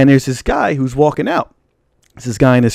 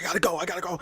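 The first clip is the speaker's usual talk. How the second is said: much softer, as if receding; calling while leaving; 3 semitones higher, 14 dB quieter, much faster than usual. Retold or imitated. Stranger walking out with his girl, voice fading away. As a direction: fade away like someone already heading off. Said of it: "he's walking out".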